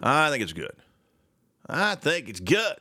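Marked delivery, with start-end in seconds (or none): 1.7-2.8 slow, drawn-out mock Russian accent. Shown as a demonstration. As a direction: stretch each word in a Russian accent. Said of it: "my, my Russian accent".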